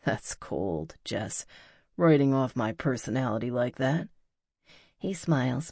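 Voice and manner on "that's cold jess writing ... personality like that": mildly hurt man. Acted. Pete mock-hurt reply to Jess.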